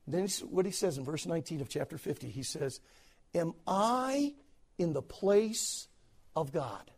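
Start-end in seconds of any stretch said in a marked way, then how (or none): 3.4-6.9 soft, slow, broken-off question; soft tearful question. Retold or imitated. Joseph to his brothers, hushed and slow. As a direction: let it fall away hushed.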